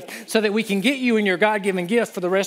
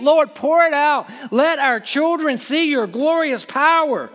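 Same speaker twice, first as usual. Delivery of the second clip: crying out to God; 3 semitones higher than usual. Acted. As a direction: let the plea grow until you pour it out. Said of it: "what he's crying out".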